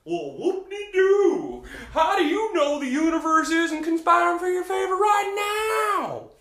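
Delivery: loud, high, laughing sarcasm; mock the doubter with a laugh; loud, sing-song sarcastic retort; sarcastic whoop-de-doo. Mocking reply to the doubter.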